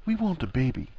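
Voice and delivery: soft, careful confession; hushed and tender; very softly. A narrator's reading. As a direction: break the news very gently. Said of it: "very softly".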